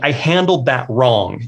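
slow, rueful admission of "I handled that wrong"; slow realization. Real, not acted. Telling wife and boys in the car, slow and rueful. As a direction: let it sink in slowly. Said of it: "And I'm like".

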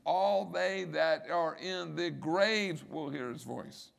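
slow, spaced stress on "All they that are in the graves"; measured, deliberate weight on "All"; emphatic. Shown as a demonstration. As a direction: draw out "All they", word by word. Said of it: "Notice the emphasis".

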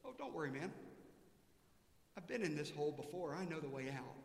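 calm, easygoing reassurance; reassuring. Retold or imitated. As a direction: settle the panicked friend down. Joe calmly reassures his friend.

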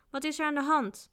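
startled, high-pitched question; taken aback, voice jumping up; dismayed. A narrator's reading. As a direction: ask in flustered alarm. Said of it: "riep deze onthutst".

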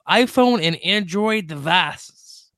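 slow, drawn-out mock Southern ending; put-on Southern accent. Host teasing co-host during sponsor plug, playful Southern accent. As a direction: stretch the last word in a Southern accent. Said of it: "A little Southern breath just for you".

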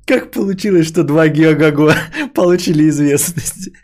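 laughing through the words. Real, not acted. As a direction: giggles while reading it out. Laughs reading a chat joke.

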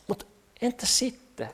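quiet shrug of a question; unimpressed so-what. Acted. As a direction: let it drop away, indifferent. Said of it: "Eikö se vähän oo silleen?".

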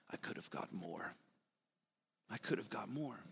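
hushed, nearly whispered regret; very softly. A narrator's reading. Schindler quietly grieving to Kingsley, hushed. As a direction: breathe it out softly, full of regret. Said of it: "very softly".

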